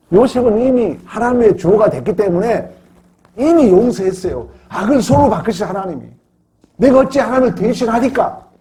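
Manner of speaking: high, loud preaching cry; impassioned proclamation. Retold or imitated. Preacher voicing Joseph forgiving his brothers, impassioned. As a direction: ring out Joseph's answer with full conviction.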